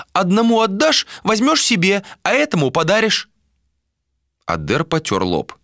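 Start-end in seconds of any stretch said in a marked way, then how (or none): 0.1-3.3 put-on high old seer's voice; old woman voice. A narrator's reading. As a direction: speak as the blind old crone, pitched up. Old seer voiced, prophecy.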